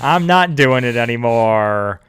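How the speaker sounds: mock panicked bail-out. Acting out abandoning a confession.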